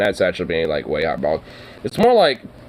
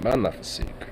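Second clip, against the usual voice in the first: mock French; 8 dB quieter than usual.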